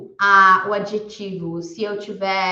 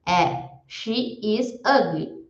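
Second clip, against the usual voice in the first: slow demo; much slower than usual. Shown as a demonstration. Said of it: "por exemplo".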